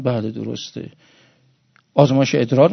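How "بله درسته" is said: soft reply. Retold or imitated. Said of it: "شون گفتن".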